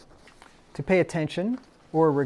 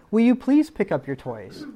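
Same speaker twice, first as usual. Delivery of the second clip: mock pleading; 7 semitones higher, 5 dB louder than usual. Shown as a demonstration.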